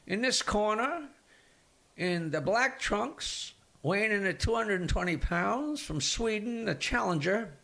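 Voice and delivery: lightly hammed-up ring announcer introducing the challenger; boxing announcer. Comedian retelling a joke, lightly playing the boxing ring announcer. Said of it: "the announcer comes out and says".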